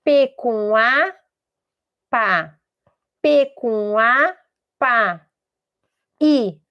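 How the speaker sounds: slow, separated syllable spelling; sounding out. Acted. Child trying to guess the word, slowly sounding out. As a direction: spell it out haltingly, piece by piece. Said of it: "Ou ela tenta adivinhar".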